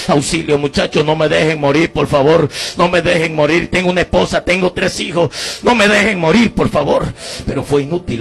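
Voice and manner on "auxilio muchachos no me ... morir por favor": urgent, raised-pitch begging; pleading for help. Retold or imitated. Wounded man begs departing youths not to leave him, pleading. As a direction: beg them as if for your life. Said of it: "pidiéndole auxilio".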